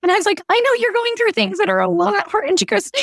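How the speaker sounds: holding back tears while telling it; tearing up. Real, not acted. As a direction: voice lifted with real emotion on the edge of crying. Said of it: "I'm gonna tear up thinking about this".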